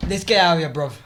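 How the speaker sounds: loud, hammed-up British lad; British accent. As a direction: cheer him along in mock British. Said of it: "now I just do it like how they actually say it".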